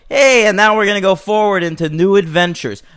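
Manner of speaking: rally them brightly for what's next; mock upbeat. Hero to the trio in imagined ending, mock upbeat.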